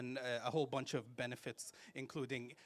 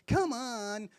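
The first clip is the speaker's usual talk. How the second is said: higher, louder coaxing come on; urging come on; 8 semitones higher, 7 dB louder than usual. Retold or imitated. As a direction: nudge someone to laugh. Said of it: "don't look at them and say".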